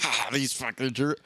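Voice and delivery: barely-there mock Southern accent, half-hearted; understated Southern accent, a passing joke. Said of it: "I don't know why I made them Southern".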